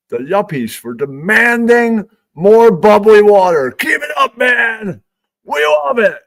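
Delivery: high, loud, slow mock cheer; mock hype. Comic salutes yuppies with a hammed-up cheer.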